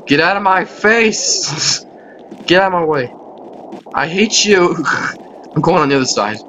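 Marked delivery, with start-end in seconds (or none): 0.1-4.8 higher, annoyed cry breaking into laughter; exasperated outburst. Real, not acted. Player tells a troll to get away, exasperated outburst. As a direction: snap at them, half laughing. Yelling at player blocking them.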